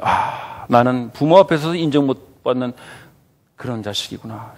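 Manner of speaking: acted dejection, sighing and sinking low; dejected child. Pastor voicing a child parents never accepted, dejected. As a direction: sigh it out like a crushed child. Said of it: "엄청난 낙심과 절망을 주는".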